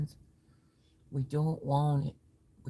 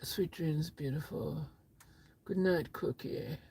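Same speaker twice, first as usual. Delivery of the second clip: whispering; 3 semitones lower, 9 dB quieter than usual. Real, not acted. Whispered goodnight to viewers.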